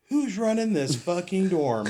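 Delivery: imitated chewing-out. Sergeant confronting the new dorm officer, mock angry. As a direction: play an irate sergeant, drawn out. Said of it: "and just ripped me".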